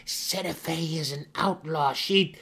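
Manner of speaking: high, loud, furious accusation; explosively violent. A narrator's reading. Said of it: "her tone edged in explosive violence".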